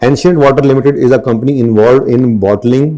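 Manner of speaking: slow, deliberate dictation read; measured classroom reading; slow textbook reading. Acted. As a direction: read it out word by word for notes. Reads question aloud slowly.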